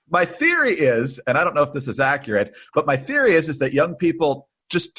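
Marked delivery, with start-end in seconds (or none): 0.1-1.2 laughing. Real, not acted.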